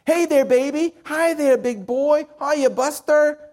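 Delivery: a hint of a scruffy old man cooing at a baby; old drunk greeting.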